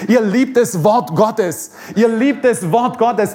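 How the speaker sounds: each word of "ihr liebt das Wort Gottes" laid down slowly; slow, weighty declaration; slow emphatic repeat. Shown as a demonstration. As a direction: lean hard on "liebt". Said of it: "Nicht jede Gemeinde heutzutage liebt".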